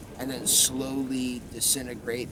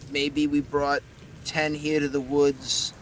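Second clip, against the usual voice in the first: werewolf skull; 3 semitones higher, 4 dB louder than usual. Acted. Skull tells the pack size.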